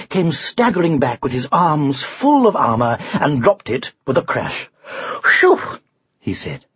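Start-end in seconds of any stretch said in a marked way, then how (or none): 5.2-5.6 high, loud "phew"; relieved puff. Acted. Knight drops his heavy armour, puffed out. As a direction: blow out after a heavy load.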